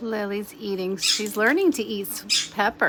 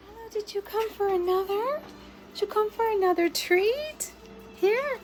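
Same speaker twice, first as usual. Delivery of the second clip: calling a dog; 11 semitones higher than usual. Real, not acted. Coaxing a bird to a treat.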